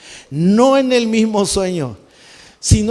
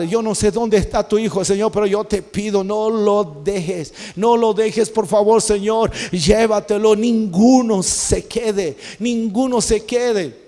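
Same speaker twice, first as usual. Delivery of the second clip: retold desperate prayer, words drawn out slowly; imploring, slow and drawn out, mildly desperate; desperate pleading. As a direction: plead with God, stretching the key words. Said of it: "yo me empecé a desesperar".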